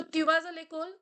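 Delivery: "Tu vas à l'école?" rising at the end; intonation question demo; rising question tune. Shown as a demonstration. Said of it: "This was intonation form".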